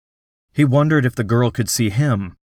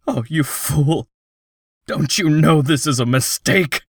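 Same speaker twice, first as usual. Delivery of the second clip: quavering voice; 5 semitones higher than usual. Acted. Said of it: "His voice quavered".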